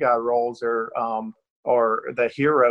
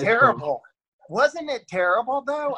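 self-mocking; 11 semitones higher than usual. Real, not acted. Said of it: "it was terrible".

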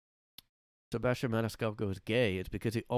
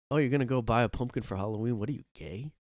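Bill Burr; 2 semitones higher, 4 dB louder, faster than usual. Retold or imitated. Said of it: "his bit was like".

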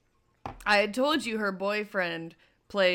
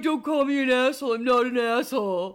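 mock indignant; 5 semitones higher, 6 dB louder than usual. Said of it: "You're like".

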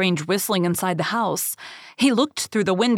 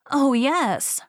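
put-on high-pitched storybook child; little girl; 7 semitones higher than usual. A narrator's reading. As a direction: answer in a small high voice. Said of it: "replied Little Red Riding Hood".

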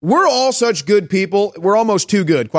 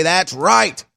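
mock agreement; 2 semitones higher, slower than usual. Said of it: "they buy in and they say".

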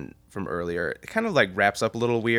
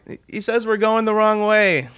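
high-pitched, raised-voice retelling; relayed yell; 12 semitones higher, 4 dB louder than usual. Retold or imitated. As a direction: pass on a shouted warning, pitched high. Driver relaying the yelled warning.

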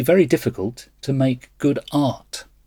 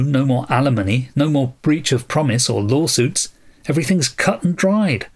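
sarcastic; 3 semitones higher than usual. Acted. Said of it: "thick with sarcasm".

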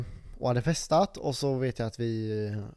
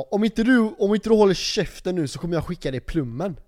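raised, higher voice of a threatening cop; retold angry yelling; 7 semitones higher, 8 dB louder than usual. Policeman threatening the drunk teller with jail, angrily yelled. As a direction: act out the officer yelling a threat. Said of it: "polisen stod och skrek på mig".

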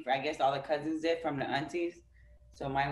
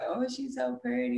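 younger self gushing; 9 semitones higher than usual. Retold or imitated. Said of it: "I used to be like".

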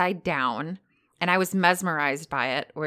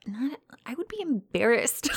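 laughing; 6 semitones higher, 3 dB quieter than usual. Retold or imitated. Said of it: "and I'm like".

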